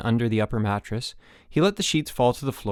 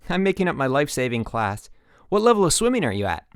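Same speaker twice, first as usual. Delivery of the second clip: high, bright, louder chipper coach; sunny camp-coach voice; 5 semitones higher, 3 dB louder than usual. Acted. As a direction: beam at the new kid.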